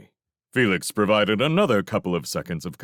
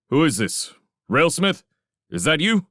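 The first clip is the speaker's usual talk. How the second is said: raised, urgent but contained questioning; trying to sound controlled; 9 semitones higher, 4 dB louder than usual. A narrator's reading. Felix calls Railsmith on the command band, urgently controlled. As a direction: hold back alarm while asking. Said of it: "trying to sound controlled".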